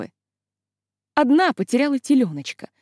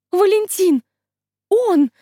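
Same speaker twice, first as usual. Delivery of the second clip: high, loud thrilled cry; girl spotting her sweetheart, high excited cry; 8 semitones higher, 5 dB louder, slower than usual. Acted. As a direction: gasp out his name in delight. Girl spots her beloved.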